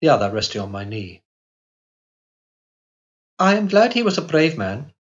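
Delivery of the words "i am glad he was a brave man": put-on wistful girl. A narrator's reading. Girl speaks of the dead.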